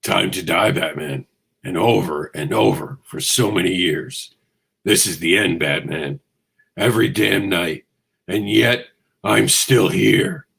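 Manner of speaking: lightly voiced brooding Batman; growly Batman voice. Host doing his growly Batman voice for viewers, lightly. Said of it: "I'll do my Batman voice".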